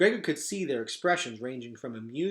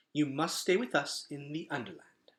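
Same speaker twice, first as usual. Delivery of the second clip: flat; 5 dB quieter than usual. Acted. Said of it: "said Luxa flatly".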